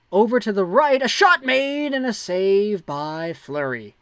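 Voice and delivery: live play-by-play. Acted.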